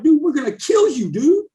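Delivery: heated retold shouting; retold angry yelling. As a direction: yell threats at the new guy. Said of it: "screaming at me".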